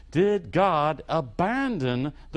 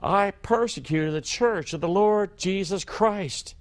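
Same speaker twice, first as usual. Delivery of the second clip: Paul confessing; 5 semitones higher than usual. Retold or imitated. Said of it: "He says".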